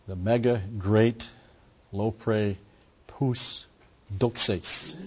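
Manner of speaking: megaloprepous doxes sounded out slowly, syllable by syllable; slow Greek reading. Shown as a demonstration. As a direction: read the Greek "lopre pous doxes" slowly and carefully, each part apart. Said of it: "this phrase refers to God the Father".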